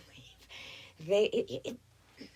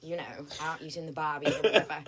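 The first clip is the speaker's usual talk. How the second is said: casual Australian, a bit giggly; Australian accent. Pretend. Waitress telling diners she's from Sydney, Australian accent. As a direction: play the Sydney girl. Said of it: "Australian accent".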